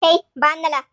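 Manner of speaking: officer yelling at the prisoner to come inside; shouting. Acted. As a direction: shout at her to come now. Mother dragged away, officer shouting.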